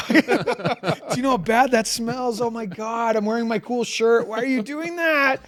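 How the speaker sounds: replaying his disgust at the kid, hammed up; retold outrage. Retells outrage on stage.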